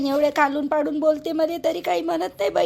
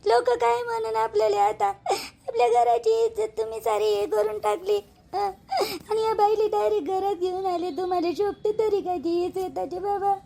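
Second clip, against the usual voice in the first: crying reproach. Acted. Wife keeps accusing, weeping.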